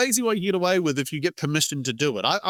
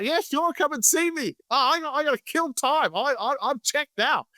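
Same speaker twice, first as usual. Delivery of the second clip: put-on higher voice of an eager time-waster; time-wasting prospect; 7 semitones higher than usual. Prospect who has handed in notice takes a sales call, falsely keen. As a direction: play the prospect stringing a salesman along, pitched up.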